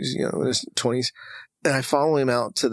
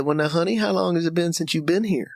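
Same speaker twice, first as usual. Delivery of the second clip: put-on Texas accent; 4 semitones higher than usual. Texas woman asking a grieving visitor how long, Texas accent. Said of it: "I'm gonna use my Texas accent".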